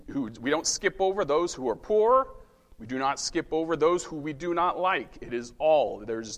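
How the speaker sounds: ordinary talk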